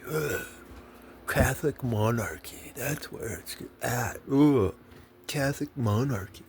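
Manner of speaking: mock monarchist Catholic. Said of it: "You're, you're".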